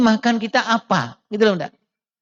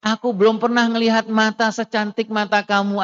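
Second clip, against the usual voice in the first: husband's tender compliment. Retold or imitated. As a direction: gently flatter the wife, lingering on the first words. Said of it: "sang ayah bilang". (pujian suami yang lembut dan pelan)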